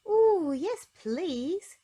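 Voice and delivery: high, loud eager ooh yes please; thrilled to be asked to the dance; eagerly. Acted. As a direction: Miss Late eagerly accepting an invitation, high and loud. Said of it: "said Little Miss Late eagerly".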